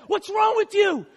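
high-pitched incredulous yelling; berating corner man, voice pushed up high; yelling trainer. Retold or imitated. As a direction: yell at your boxer between rounds. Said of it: "he starts yelling at him".

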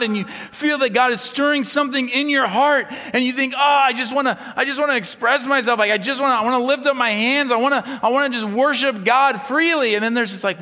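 loud, high, impassioned preaching; full-force preaching. Acted. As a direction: preach it out to the whole room.

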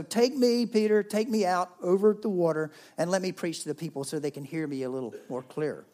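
lightly voiced urgent request; Jesus asking. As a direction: ask Peter with energy. Jesus asks Peter.

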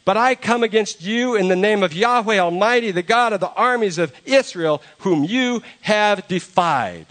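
put-on shepherd boy answering the giant; bold young challenger. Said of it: "So David says to him".

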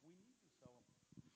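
hushed, slow thought under the breath; inner thought. Retold or imitated. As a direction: mutter it to yourself, barely voiced. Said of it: "I was thinking to myself".

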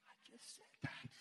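soft, near-whispered aside; muttered thought. Retold or imitated. Man thinking as leader repeats her question, exasperated mutter. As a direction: grumble it under your breath.

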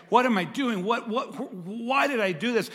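mock anguished self-talk. Pastor voicing a sinner's regret, anguished. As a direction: voice the regret of someone who failed.

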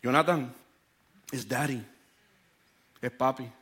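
tono más grave y sereno de papá; preséntate con ternura a tu bebé que llora; papá calmando al bebé. Retold or imitated. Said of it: "empecé, dije". (voz calmada y tierna de padre)

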